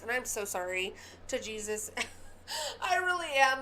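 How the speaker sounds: hammed-up teary sorry, breaking into a laugh; fake-sob the apology half laughing; mock crying apology. Apologizing to Jesus for cursing.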